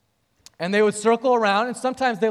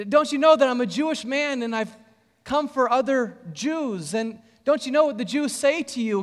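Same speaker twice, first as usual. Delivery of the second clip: cajoling, teasing; 4 semitones higher than usual. Shown as a demonstration. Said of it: "Kind of cajoling her".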